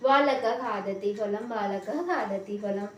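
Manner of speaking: बालकः खादति with the ः a brief puff run straight into "khaa"; half visarga. Shown as a demonstration. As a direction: say "baalakah-khaadati", no full "ha" after बालकः. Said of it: "केवल उच्चारण पर ध्यान देना है".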